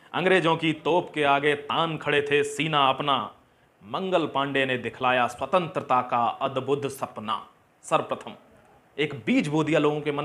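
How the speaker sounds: measured, emphatic verse delivery; declaimed patriotic poem; patriotic poem recitation. Acted. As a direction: recite it line by line with pride.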